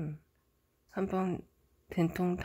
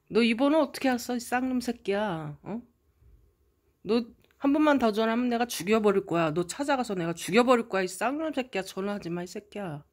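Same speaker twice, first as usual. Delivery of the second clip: fast, higher, louder threatening yell; strong threats; 3 semitones higher, 6 dB louder than usual. Retold or imitated. Brother threatening the foreign caller, fast furious shouting. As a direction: bark threats fast and hard. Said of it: "강하게, 아주 세게".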